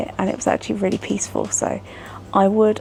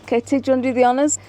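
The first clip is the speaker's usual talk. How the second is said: tipsy. Real, not acted. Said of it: "I sound like a drunken old pirate".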